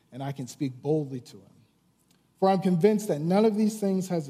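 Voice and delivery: measured, lightly dramatised Bible reading; scripture reading. Acted. Preacher reads Acts aloud to his congregation, lightly dramatised. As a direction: read the passage to the congregation.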